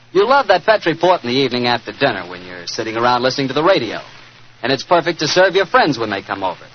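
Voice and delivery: upbeat, friendly wine commercial pitch; old-time radio announcer selling wine; radio ad read. Acted. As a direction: sell the port to the listeners at home, warmly. Sponsor ad before the show.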